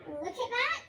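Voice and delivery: big skeleton voice. Acted. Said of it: "the big skeleton said".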